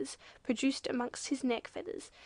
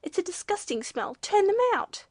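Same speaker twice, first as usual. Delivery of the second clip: indignant cry building to a loud high shout; 8 semitones higher, 6 dB louder than usual. A narrator's reading. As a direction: build from complaint to yelled demand. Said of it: "shouted the waterfowl".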